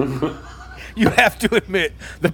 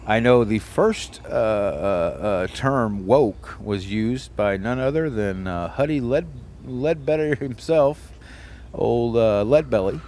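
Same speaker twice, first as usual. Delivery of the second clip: Eastwood; 9 semitones lower than usual. Acted. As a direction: growl it out like an old Western gunslinger with hesitant uhs. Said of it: "Eastwood here".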